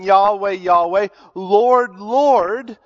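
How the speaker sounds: loud, earnest calling out to the Lord; fervent cry. Retold or imitated. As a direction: cry out with fervour. Worshippers crying out to Jesus.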